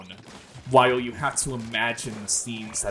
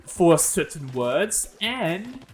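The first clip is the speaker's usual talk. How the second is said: theatrical fake-British transatlantic accent, pitched up; 4 semitones higher than usual. Shown as a demonstration. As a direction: explain it in a hammed-up transatlantic accent. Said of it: "I needed to do a transatlantic accent".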